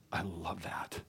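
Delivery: soft whispered aside. Real, not acted. Preacher whispering his love for God's faithfulness. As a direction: breathe it as a private delight. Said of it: "whispered aside".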